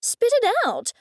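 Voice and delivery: high, loud snap; impatient shout. A narrator's reading. Goldie demanding Laura get to the point, loud snap. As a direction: cut her off sharply, impatient.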